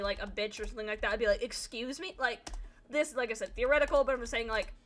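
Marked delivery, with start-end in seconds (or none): 1.4-2.1 softer, rising question; quietly indignant query; affronted excuse me. Pretend. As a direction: play an offended reply in a pretend fight. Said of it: "let's say we get into a fight".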